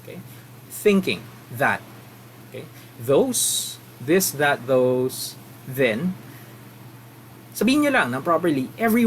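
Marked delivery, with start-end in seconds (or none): 0.7-1.8 "Thinking" with a clear th at the start, tongue between the teeth; clear th sounds. Shown as a demonstration. Teacher models th sounds for the class, crisp and careful. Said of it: "Say it properly". 3.0-6.2 "Those" "this" "that" "then", each with a clear voiced th; th words drilled. Shown as a demonstration. Teacher drills voiced th words one by one, careful. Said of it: "Say it properly".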